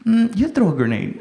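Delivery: unshouted, hesitant comeback; reluctant refusal. Retold or imitated. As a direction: push the order back at them, unwilling. Reluctant answer to shouted order.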